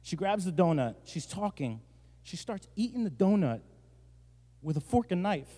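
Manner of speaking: softly, as if pained to tell it; hushed, hammed-up distress; mock emotional. Pastor recalling his wife's donut offense, mock emotional. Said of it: "I'm gonna get emotional real quick".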